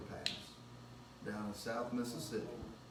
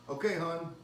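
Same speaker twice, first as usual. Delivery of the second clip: higher-pitched mock Southern Mississippi florist; imitated Southern Mississippi accent; 5 semitones higher, 4 dB louder than usual. Imitated florist taking a phone order, Southern Mississippi accent. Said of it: "chewing gum, and it sounds like she may have a cigarette dangling".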